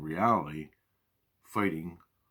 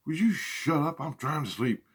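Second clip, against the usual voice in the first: spirits yelling; 8 semitones higher than usual. Retold or imitated. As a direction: snap at him to shut up, pitched high. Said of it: "everybody's yelling at me".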